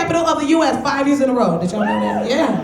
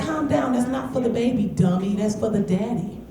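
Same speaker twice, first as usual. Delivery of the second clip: dismissive friend; 3 semitones lower, 6 dB quieter than usual. Retold or imitated. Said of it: "They like".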